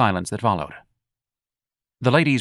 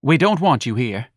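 tart; 4 semitones higher, 3 dB louder than usual. Acted. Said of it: "said tartly and simply".

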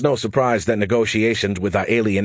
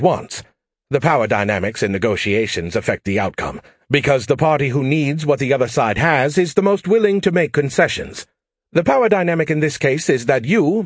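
lightly raised, quick, cocky AI voice; brash AI pestering Joe for help; cocky alien AI; 4 semitones higher than usual. Acted. Skippy lectures diplomat.

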